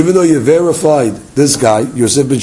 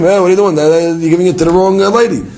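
mild mock yell, higher pitched; half-hearted scream, pitched up; retold scream; 5 semitones higher than usual. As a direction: imitate an outraged husband's protest without really shouting. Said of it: "he's gonna scream".

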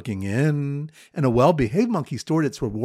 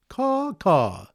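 mock bird call; 4 semitones higher than usual. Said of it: "a bird caller going".

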